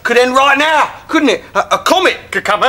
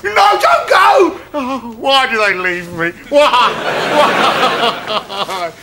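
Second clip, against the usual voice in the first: melodramatic wailing; much slower than usual. Acted. Pleading as friends leave.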